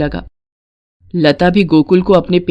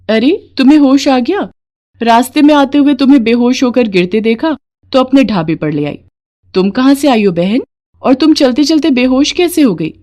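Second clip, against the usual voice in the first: put-on a caring older woman, higher and lively; kindly dhaba owner; 5 semitones higher than usual. Sheela welcoming Mangla after she faints, lightly voiced kindness. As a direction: fuss over the fainted stranger kindly.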